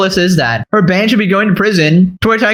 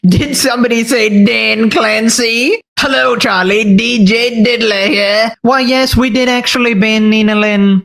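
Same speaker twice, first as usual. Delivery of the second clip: lightly voiced nasal-free Pee-wee impression, slowed in places; a hint of Pee-wee Herman as the Twitch boss. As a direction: play a boss in a goofy Pee-wee style. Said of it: "Why you gotta use Pee-wee Herman".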